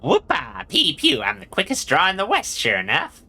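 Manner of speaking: high, whooping Wild West gunslinger; cowboy gunslinger. Acted. Gabby boasts of the quickest draw, high cowboy whoop. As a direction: whoop it up like a cowpoke.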